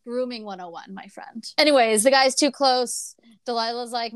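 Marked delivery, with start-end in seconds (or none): 0.0-1.5 disgusted. Retold or imitated. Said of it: "I'm just like".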